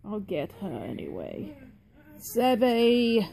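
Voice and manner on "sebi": calling out. Real, not acted. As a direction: call a name across the room. Calling the butler over.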